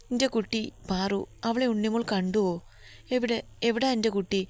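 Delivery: a lightly acted old woman near tears; tearful grandmother. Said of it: "അവരുടെ തൊണ്ടക്കുഴിയിൽ ശബ്ദം പതറിയിരുന്നു".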